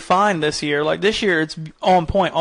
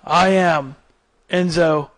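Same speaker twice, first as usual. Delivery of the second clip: Enzo Amore emotionless promo; slower than usual. Retold or imitated. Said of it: "He has no, no emotion whatsoever".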